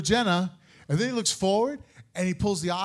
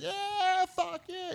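much higher, mocking cheer of triumph; mock victory cheer; 12 semitones higher, 4 dB quieter, much slower than usual. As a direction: gloat like she just won. Husband imitates wife's victory cheer.

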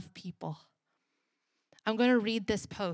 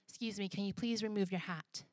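hushed polite request; 7 dB quieter than usual. Retold or imitated. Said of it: "went over and said".

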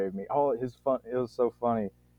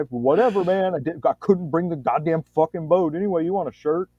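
louder, higher shrug-it-off retort; breezy brush-off; 6 semitones higher, 5 dB louder than usual. Retold or imitated. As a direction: toss the problem aside and move on. Retold Scott shrugging it off.

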